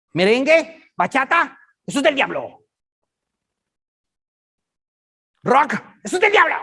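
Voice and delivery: high, loud mock condemnation; mock church mom. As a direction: list the sins like a scandalized mother. Continues mocking church mom. (imitación escandalizada, aguda y fuerte)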